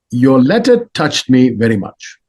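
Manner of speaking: measured, emphatic words from an imitated lama; Dalai Lama. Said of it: "and he goes".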